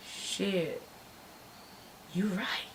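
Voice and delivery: very soft, subdued concession; deflated admission. Retold or imitated. Storyteller concedes to the driver about the cops, subdued. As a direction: let the fight drain out, almost to nothing.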